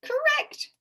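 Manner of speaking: high, loud announcement; letter man shouting the verdict; shouted. A narrator's reading. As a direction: call it out triumphantly. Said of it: "shouted the letter man".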